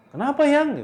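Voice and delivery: high, loud acted surprise; acted alarmed husband; startled question. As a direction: call out taken aback, voice jumping up. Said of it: "Anto kan kaget ya".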